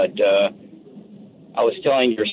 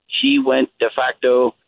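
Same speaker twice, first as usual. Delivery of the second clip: ordinary delivery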